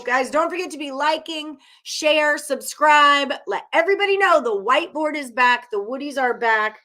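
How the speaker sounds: excited plug. Real, not acted. Call to like and subscribe.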